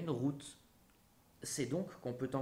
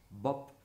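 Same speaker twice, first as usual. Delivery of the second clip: short imitated pop; bop noise. Picasso painting the red moon, short bop noise. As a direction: dab it with a vocal bop. Voicing the painter's strokes aloud.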